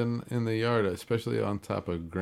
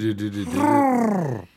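turkey impression; 13 semitones higher, 6 dB louder than usual. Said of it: "How about this one?".

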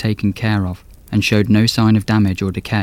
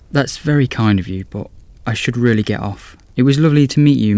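put-on a nervous young estate agent; young woman voice; 3 semitones higher than usual. Gracie voiced in story.

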